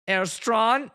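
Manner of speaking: slow put-on German accent; drawn-out German-accented address. Shown as a demonstration. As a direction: say it as a mock German. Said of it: "in the German accent".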